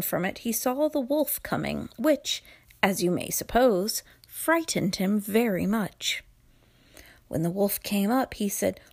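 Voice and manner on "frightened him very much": plain reading voice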